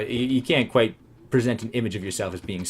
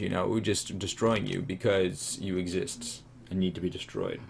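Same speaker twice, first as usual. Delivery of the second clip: menacing savage monster; 3 dB quieter, slower than usual. Acted. Savage ant threatening its enemy, slow menacing voice. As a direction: growl it out like a ruthless beast.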